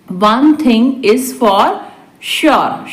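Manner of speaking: deliberate, for learners; spaced-out repeat. Shown as a demonstration. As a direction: hold back the last word. Teacher repeats translation word by word. (रुक-रुककर)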